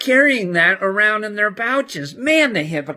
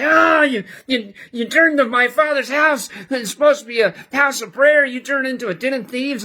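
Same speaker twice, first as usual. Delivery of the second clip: raised, agitated retold rebuke; mock-furious outburst, higher pitch; imitated angry Jesus; 6 semitones higher than usual. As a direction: act out an outraged scolding. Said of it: "why is he so mad".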